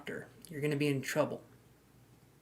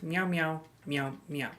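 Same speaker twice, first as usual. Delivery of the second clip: speaking cat; 5 dB quieter, slower than usual. Pretend. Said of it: "That is Cat Anise".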